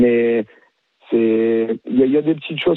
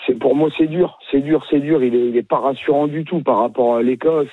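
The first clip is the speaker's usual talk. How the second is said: hoarse voice. Real, not acted. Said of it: "j'ai la voix cassée".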